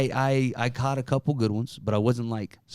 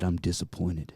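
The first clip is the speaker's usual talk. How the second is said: low, quiet stern letdown; quiet disappointed; 6 semitones lower, 9 dB quieter than usual. Retold or imitated. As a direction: say it low and let it sink. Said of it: "he said".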